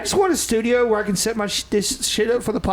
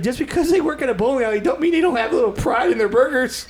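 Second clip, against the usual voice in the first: higher-pitched, lightly imitated Canadian accent; rough Canadian accent, pitched up; attempted Canadian accent; 4 semitones higher than usual. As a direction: attempt a Canadian bowling-burger fan. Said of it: "I can't do the accent".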